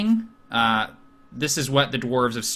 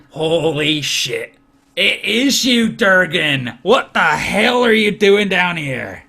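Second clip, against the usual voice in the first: loud, high astonished friend; shocked to see him, half-shouting; old friend recognizing him; excited old friend; 4 semitones higher, 6 dB louder, slower than usual. Acted. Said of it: "he looks and he goes".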